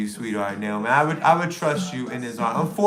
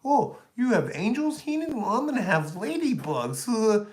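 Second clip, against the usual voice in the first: high mock voice, lightly voiced; mocking rival; 5 semitones higher than usual. Streamer mocking rival's copying, high. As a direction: mimic him high and silly.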